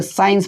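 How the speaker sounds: साइंस said with a clear s sound; pronunciation demo. Shown as a demonstration. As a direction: say साइंस as "sains". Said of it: "इसको सौ पढ़ते हैं".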